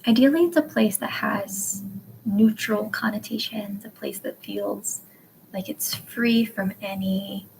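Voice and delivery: measured meditation guide, slowing toward the end; guided meditation. Acted. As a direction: ease them into imagining, with long pauses. Leads a calm place meditation.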